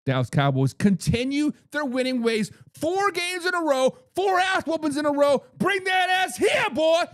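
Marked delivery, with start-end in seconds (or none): 5.6-7.0 loud, higher, fired-up call-out; fired-up shout at the opponent; hype shout. Real, not acted. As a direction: yell it like a rowdy fan. Hyped fan calling out.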